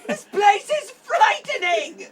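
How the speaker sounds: frightened. Acted. Player panics in rune room.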